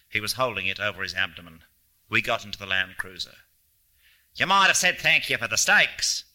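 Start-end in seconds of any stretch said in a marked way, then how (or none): 4.3-6.2 higher, raised-voice parting complaint; half-shouted grumble, pitched up; calling out. A narrator's reading. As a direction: call after departing guests with mild abrasiveness. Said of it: "he called out after us".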